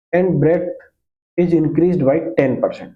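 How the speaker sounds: slow, measured reading of the question; slow classroom dictation. Shown as a demonstration. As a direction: read it out word by word for the class. Reads the question out slowly.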